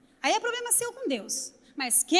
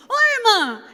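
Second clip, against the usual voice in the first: surprised greeting; 4 semitones higher, 7 dB louder than usual. Retold or imitated. Surprised reply on the phone.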